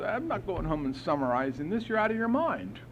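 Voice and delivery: mock indignant, rising in pitch; pissed off. Sponsee told to summarize his inventory, pissed off. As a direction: act out a mildly angry refusal. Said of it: "And I was pissed".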